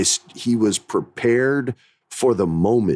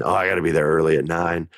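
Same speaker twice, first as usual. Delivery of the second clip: mock eager actor; 4 semitones lower, faster than usual. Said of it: "you hear actors talk about".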